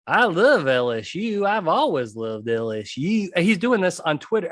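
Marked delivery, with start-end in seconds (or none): 0.1-3.3 lightly put-on Southern drawl, imitating a coach; a hint of a fake Southern accent. Imitating the new LSU coach at his press conference, in a lightly faked Southern accent. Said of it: "He starts talking like this".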